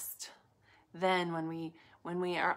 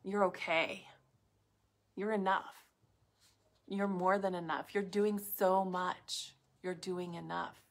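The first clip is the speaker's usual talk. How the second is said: voice of love. Retold or imitated. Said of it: "The voice of love says things like".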